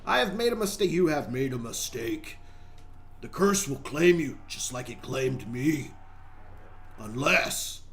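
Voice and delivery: slow, ominous cursed soul; put-on curse victim voice. Trapped soul warns explorer of the curse, slow spooky voice. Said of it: "what's with this voice I'm doing?".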